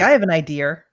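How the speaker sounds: "idea" said as "idear"; New England added R on "idea"; intrusive R. Shown as a demonstration. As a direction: tack an R onto the end of "idea". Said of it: "they put R's where no R's should be".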